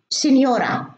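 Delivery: سينيورا said the Italian way, sinyora; Italian pronunciation. Shown as a demonstration. Teacher showing how Italian sounds the word, careful demo. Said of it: "في اللغة الإيطالية بيكتبوا".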